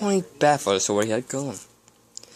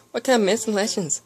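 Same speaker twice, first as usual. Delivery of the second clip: excited; 10 semitones higher than usual. A narrator's reading. Eager Pinkie Pie questions.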